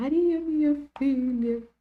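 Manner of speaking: put-on tearful, sobbing, high crying shout. Retelling how she cried out to Maria: imitating a crying shout. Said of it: "Ela gritando".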